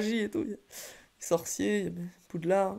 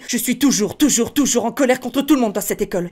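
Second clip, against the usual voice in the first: faster thin voice. Shown as a demonstration. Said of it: "vous rajoutez la rapidité".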